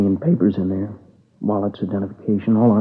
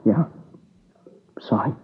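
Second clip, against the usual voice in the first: whispered apology through tears; tearful whisper; 2 semitones higher, 4 dB quieter than usual. Acted. Witness apologising to detectives, whispered and tearful. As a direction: barely get the word out.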